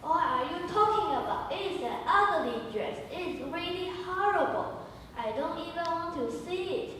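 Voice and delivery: high, loud scornful outburst; scornful calling. Acted. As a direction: sneer at the ugly dress. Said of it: "Jen is calling".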